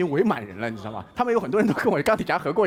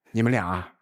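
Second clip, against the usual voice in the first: weary policeman; 11 semitones lower than usual. Retold or imitated. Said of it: "然后警察一看是我".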